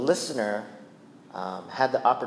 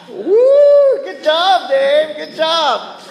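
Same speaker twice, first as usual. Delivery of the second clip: much higher, louder sarcastic cheer; mock cheer; 12 semitones higher, 8 dB louder, much slower than usual. Wife mocking husband Dave with fake praise, high and loud.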